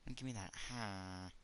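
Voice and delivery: dry sarcastic repeat. Pretend. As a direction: say it dripping with sarcasm. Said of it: "In a sarcastic tone".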